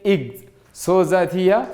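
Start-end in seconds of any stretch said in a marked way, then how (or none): 0.0-0.5 "eg" voiced as "ig"; wrong-sound demo. Shown as a demonstration. Teacher warning students off this sound in excellent, pronunciation demo. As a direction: give "eg" as the short sound ig. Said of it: "You cannot say eg".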